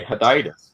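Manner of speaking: "Heditis" said huh-DIE-tis; "Heditis" as one word, long i in the middle; corrective pronunciation. Shown as a demonstration. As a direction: correct them with "Heditis", stressing the "die" syllable. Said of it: "that's the correct way".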